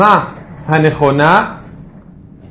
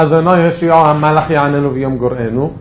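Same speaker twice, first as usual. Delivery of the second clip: no break anywhere from "אדוני" to "גורענו"; wrong run-on phrasing. Shown as a demonstration. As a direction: run "הושיעו המלך יעננו" together without a pause. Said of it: "לא".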